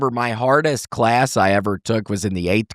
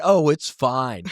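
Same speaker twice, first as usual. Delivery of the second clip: mocking quote; 3 semitones higher, slower than usual. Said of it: "that doesn't even sound very believable".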